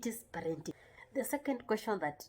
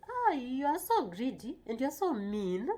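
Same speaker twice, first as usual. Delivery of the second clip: higher, exclaiming accusation; mock reproach; 5 semitones higher, 3 dB louder than usual. Shown as a demonstration. Parent calling a child greedy, mock reproach. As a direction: chide with swooping, stretched emphasis. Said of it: "when you use such terms on your child".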